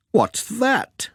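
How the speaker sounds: high, curious what's-that; surprised question. Acted. Pat finding something behind the chocolates, surprised. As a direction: pitch up in surprise.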